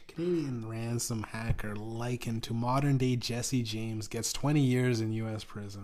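normal talking voice

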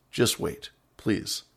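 soft whispered "just wait, please". Real, not acted. Host pleading with listeners in a whisper. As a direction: breathe it out as a plea.

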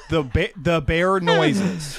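slow, stalling repeat of bear noises; mock puzzled repeat. Pretending not to understand, he slowly echoes the accusation. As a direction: drag it out like you have no idea. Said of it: "And I said".

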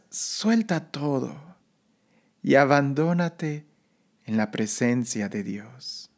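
soft, slow guided meditation voice; sleep story narrator. Acted. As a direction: ease them into calm, slowly. Leads a breathing meditation.

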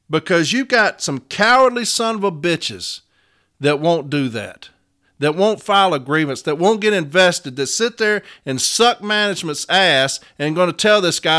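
heated union rant at lazy stewards; angry rant. Real, not acted. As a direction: rail against the cowards who won't step up. Ranting against cowardly stewards.

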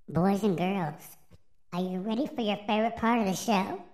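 put-on upbeat, fast kids host; overbright kids party host. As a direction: hype up the boys and girls.

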